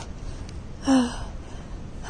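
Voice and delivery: a puffed-out exhale after running; mock panting sigh. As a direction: blow out air like you just raced. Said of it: "I'm out of breath".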